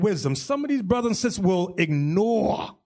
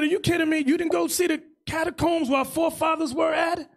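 mock disbelief; 7 semitones higher than usual. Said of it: "I said".

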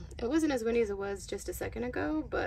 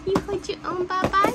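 higher, quicker sing-song question; 7 semitones higher, 5 dB louder, faster than usual. Real, not acted. Mother asking her baby girl again, higher and quicker.

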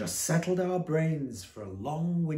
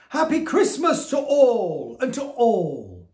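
calling farewell; 6 semitones higher, 9 dB louder than usual. Acted. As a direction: call it out as he drives away, then let it die to a hush. Santa calls out departing.

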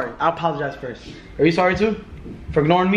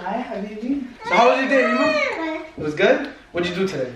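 put-on high baby-talk voice.

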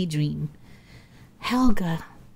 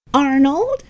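high, louder startled question; startled squeak; 7 semitones higher, 5 dB louder than usual. A narrator's reading. Helga startled by Arnold right behind her, high squeak. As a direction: squeak the name in surprise. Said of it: "she squeaked".

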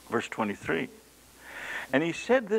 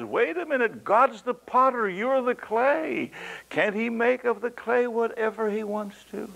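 high insistent challenge; Paul answering the objection, high and insistent; firm retort; 12 semitones higher, 3 dB louder than usual. Retold or imitated. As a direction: stop them short and insist. Voicing Paul: potter and clay.

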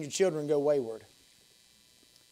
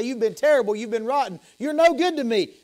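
higher-pitched mock scolding; imagined scolding; 5 semitones higher, 3 dB louder than usual. Older brother's imagined father rebukes the wayward son, scolding. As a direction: scold in a father's voice, lightly acted. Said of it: "scold him and say".

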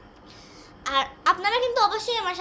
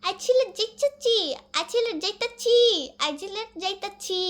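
put-on Old Dhaka dialect; 3 semitones higher than usual. Shown as a demonstration. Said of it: "আর পুরান ঢাকায় কয়".

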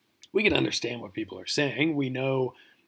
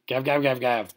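short, punchy barks in quick bursts; dog barking "gav"; 5 dB louder than usual. Acted. Lecturer mimicking a Greek dog, loud barking. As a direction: bark it out like a dog using a Greek word. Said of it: "picture a dog barking and just saying".

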